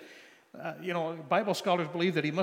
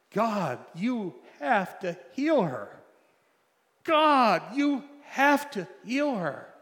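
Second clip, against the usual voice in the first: loud, slow, anguished cry to God; desperate shouted plea to God; desperate demand; 7 semitones higher, 8 dB louder, slower than usual. Retold or imitated. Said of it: "just demanding of God a miracle".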